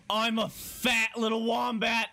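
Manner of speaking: high, drawn-out gleeful cry; delighted squeal. Real, not acted. Player thrilled to become a wombat, delighted squeal.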